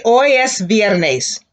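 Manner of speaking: slow and clear, each word apart; slow repeat-after-me model; slow model sentence. Shown as a demonstration.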